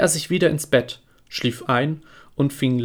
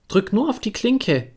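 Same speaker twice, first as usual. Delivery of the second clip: put-on much higher, thin old woman's voice; old grandmother voice; 8 semitones higher than usual. Sick grandmother asks who knocks, high frail old voice. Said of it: "rief die Großmutter".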